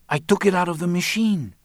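high voice, insisting on innocence; defensive female character. A narrator's reading. Marta answers Roland's accusation.

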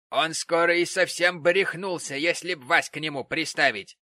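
biting retort. Acted. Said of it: "сказала миссис Гэмп".

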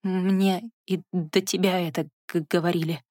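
stammering with chattering teeth; shivering so the teeth chatter. Acted. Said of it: "Стуча зубами, она выговорила".

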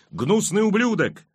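very high, drawn-out insult; crowd yell. A narrator's reading. Angry mob screams abuse at the king, high yell. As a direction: stretch the jeer out, pitched high. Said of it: "вопили голоса".

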